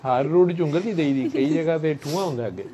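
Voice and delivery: chuckling through a teasing proverb; laughing. Real, not acted. Husband teases his wife with a Punjabi saying, chuckling. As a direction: laugh while you tease her.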